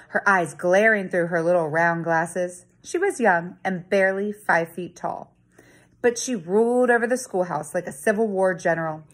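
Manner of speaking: put-on lively read-aloud for children; story narration. A narrator's reading. Teacher reading a chapter book to her students, storytelling voice. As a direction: tell the story to the class with feeling.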